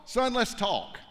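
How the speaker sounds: lightly voiced God calling Job; fatherly God. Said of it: "God says".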